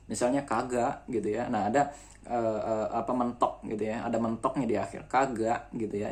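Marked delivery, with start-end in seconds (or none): 0.4-1.1 kagak with a sharp glottal stop at the end, Jakarta style. Shown as a demonstration. Teacher showing students the Jakarta glottal ending. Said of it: "Glotal itu seperti huruf ain". 5.1-5.7 Kagak ending in a clipped glottal catch; glottal stop ending. Shown as a demonstration. Teacher repeating the glottal ending example for students. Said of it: "Itu namanya glotal".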